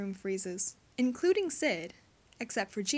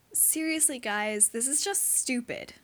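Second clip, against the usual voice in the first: a bit of a whine; 2 semitones higher than usual. Acted. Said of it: "his voice is coming out in a bit of a whine".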